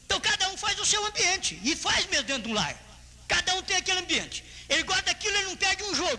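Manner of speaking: high-pitched, insistent pulpit delivery; preaching. Real, not acted.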